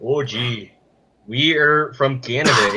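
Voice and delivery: hammed-up Canadian stereotype accent. Shown as a demonstration. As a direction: put on a polite, folksy Canadian accent. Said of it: "I can do a Canadian accent".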